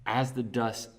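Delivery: slow, emphatic trailer-style storytelling; dramatic script narration. Acted. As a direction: build the battle with big punched words and pauses. Narrates their imagined climax script.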